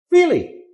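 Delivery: Really? swept up high; rising question. Shown as a demonstration. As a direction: ask Really? with a sharp rise.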